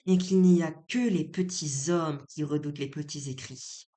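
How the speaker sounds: emphatic declaimed speech, key words leaned on; theatrical reading, deliberate and pointed; dramatic monologue reading. Acted. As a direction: declaim it with strong accents and held pauses. Reads a play monologue aloud.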